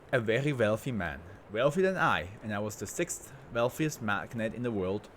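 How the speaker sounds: badly faked German accent; attempted German accent. Rich industrialist boasting to an interviewer, in a shaky attempt at a German accent. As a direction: try a German accent and only half manage it. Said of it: "I can't do a fucking German accent".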